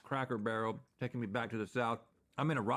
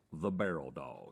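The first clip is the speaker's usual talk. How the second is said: dramatic reveal; 10 semitones lower, 4 dB quieter, slower than usual. Pretend. Dramatic naming.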